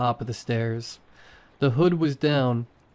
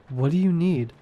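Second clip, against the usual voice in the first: higher eerie voice; undead sister; 5 semitones higher than usual. A narrator's reading. Undead sister to her brother, eerie higher voice. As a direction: ask it like something not quite human.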